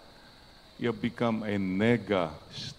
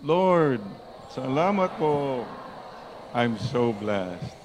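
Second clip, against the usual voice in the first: louder, with heart; 2 semitones higher, slower than usual. Shown as a demonstration. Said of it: "Louder, please, with the heart".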